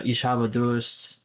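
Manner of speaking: slow German Ich habe Durst; German phrase. Shown as a demonstration. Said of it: "you say, like".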